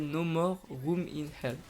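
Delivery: English title in a heavy French accent; bad English accent. Real, not acted. Gamer naming a zombie game to viewers, bad English accent. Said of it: "excusez-moi pour mon accent anglais totalement dégueulasse".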